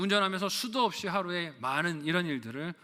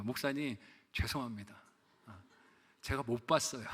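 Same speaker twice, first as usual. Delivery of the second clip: meek apology; 6 semitones lower, 6 dB quieter than usual. Retold or imitated. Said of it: "저한테 얘기하십니다".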